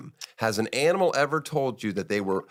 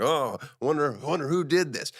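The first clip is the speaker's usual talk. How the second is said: higher mock-innocent musing; lightly acted feigned innocence; 6 semitones higher than usual. Culprit back at the police line, feigned innocence. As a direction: muse aloud as if you had no idea.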